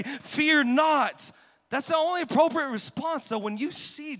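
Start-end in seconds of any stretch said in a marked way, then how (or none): 0.0-1.3 commanding shout. Retold or imitated. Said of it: "That's why you gotta say".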